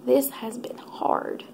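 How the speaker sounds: slow, breathless whisper through tears; tearful whisper. Real, not acted. Telling viewers about the hard season, whispering through tears. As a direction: barely get it out while crying. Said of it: "I didn't expect to cry".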